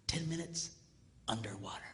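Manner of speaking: low, soft dry delivery; understated low punchline; deadpan punchline. Retold or imitated. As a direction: let it drop, low and quiet.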